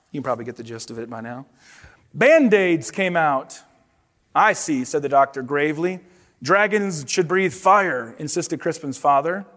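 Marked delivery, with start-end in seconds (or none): 2.1-9.4 expressive picture-book narration; storybook read-aloud with paced reveals; reading to children. Acted. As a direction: tell it to the kids like a bedtime storybook.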